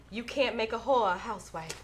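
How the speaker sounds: put-on a touch of a Southern belle accent. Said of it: "that was my Southern Belle accent".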